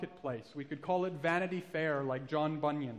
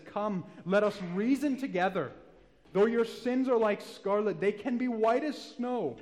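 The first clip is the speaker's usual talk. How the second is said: tender invitation; 4 semitones higher, 7 dB louder than usual. Acted. God's invitation voiced by preacher.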